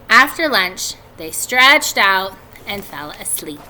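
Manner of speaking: put-on steady read-aloud narration for kids; story narration. A narrator's reading. Teacher reading a chapter to her students, in story narration.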